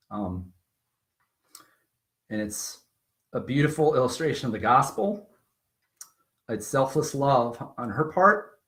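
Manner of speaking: real emotion, softening at the hesitations; halting, moved, with long pauses; getting emotional. Real, not acted. Adoptive dad moved by birth mother's selfless love, emotional. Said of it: "I don't know why I'm getting emotional".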